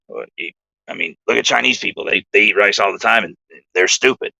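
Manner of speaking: a mild mock of a buddy's odd voice; half-hearted put-on voice, matter-of-fact; imitating Bill. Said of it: "I'm gonna do my best to imitate Bill's voice".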